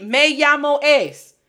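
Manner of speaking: slow, loud and high mimicry; mock wrong phrase. Shown as a demonstration. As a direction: drag out the bad example, pitched high. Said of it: "do not give your students credit for saying".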